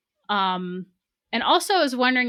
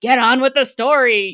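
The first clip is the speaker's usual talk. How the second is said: louder, slightly raised, exasperated outburst; retold frustration; 4 semitones higher, 8 dB louder than usual. Reader complaining at footnotes that delay the story, frustrated. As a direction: push it out like an impatient reader. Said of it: "I found myself frustrated with".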